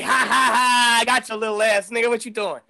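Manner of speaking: laughing taunt; a hint of a gloating prank laugh; mocking prankster laugh. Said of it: "And he was like".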